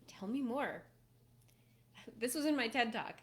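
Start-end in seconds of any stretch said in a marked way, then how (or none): 0.1-0.8 curious invitation. Shown as a demonstration. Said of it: "you say".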